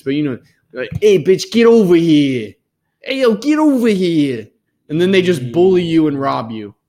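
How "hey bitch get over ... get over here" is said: a half-hearted tough-guy gangster voice, the first line slow; goose as street hooligan. Retold or imitated. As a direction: bark it like a bullying street thug, badly faked. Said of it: "oh, I can't do accents".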